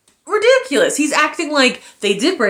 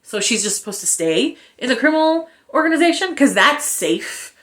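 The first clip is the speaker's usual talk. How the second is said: sarcastic; 2 semitones higher than usual. Retold or imitated. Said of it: "So I'm like".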